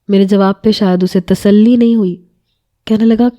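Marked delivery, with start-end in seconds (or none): none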